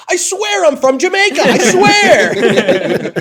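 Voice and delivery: imitating TikTok guy. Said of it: "his content was being like".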